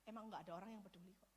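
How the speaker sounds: soft, low, quick resigned mutter; hopeless aside spoken low and soft. Retold or imitated. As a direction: give up quietly under the breath. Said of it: "diam-diam sudah menyerah dan berkata".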